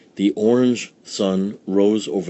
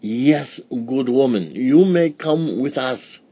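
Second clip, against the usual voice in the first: higher, kindly sage; wise old sage; 5 semitones higher, 4 dB louder than usual. Acted. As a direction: grant it graciously. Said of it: "said the wise man".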